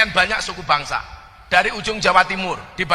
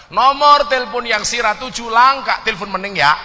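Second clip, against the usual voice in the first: Tegal phone message; 4 semitones higher, 4 dB louder than usual. Retold or imitated. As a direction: read it like an operator in Tegal dialect. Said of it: "apa jawaban orang Tegal?". (pesan operator logat Tegal, pelan)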